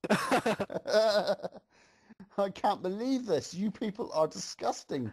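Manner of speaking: a lightly hammed-up indignant pony; Twilight's mock scream. Pony disgusted by the rude crowd, mock scream. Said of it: "Twilight screamed".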